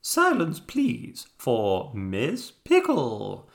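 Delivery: loud booming call for silence, starting high; booming announcement. A narrator's reading. Hippo silencing everyone for Miss Pickle, booming loudly. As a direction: boom it out like a grand announcer. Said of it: "the hippopotamus boomed loudly".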